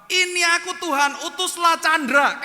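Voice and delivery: high, loud shouted prayer; mock fervent prayer. Imitating friends praying to send Chandra instead, loud hammed-up shout. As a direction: belt it out, hammed-up and insistent. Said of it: "Tapi mereka berdoa apa?".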